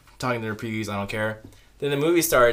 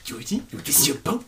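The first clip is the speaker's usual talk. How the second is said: lightly voiced luring monster; creepy clown imitation; 3 semitones higher than usual. It offering Georgie his boat, lightly creepy coaxing. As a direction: coax the child with a put-on voice. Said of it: "then it comes out".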